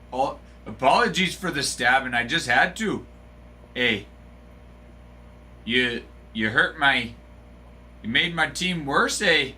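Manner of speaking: apologetic Canadian with eh; light fake Canadian lilt; mock Canadian accent apologizing for a stabbing. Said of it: "how was my accent".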